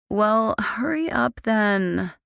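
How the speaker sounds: slow, drawn-out complaint; complaining. Acted. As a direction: whine for them to hurry. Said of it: "Alexandra complained".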